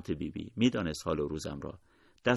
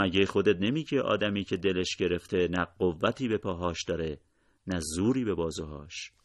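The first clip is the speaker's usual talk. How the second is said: questioning, a little more forceful; mild challenge. Acted. Narrator turning Bibi's own saying back on her, mild challenge. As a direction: quote it back as a protest.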